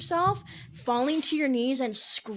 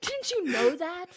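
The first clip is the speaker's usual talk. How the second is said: slow, lofty put-down; mock disdain; 5 semitones higher, slower than usual. Host mimicking her cohost's snooty question, slow and sneering. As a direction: sneer it slowly. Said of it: "with such disdain".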